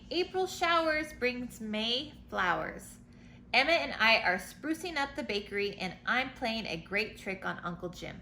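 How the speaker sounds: storybook letter read aloud; reading to children. A narrator's reading. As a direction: read it like a bedtime picture book.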